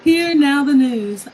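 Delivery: slow, formal newsreader announcement; news anchor voice. Pretend. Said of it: "You sound like a news reporter".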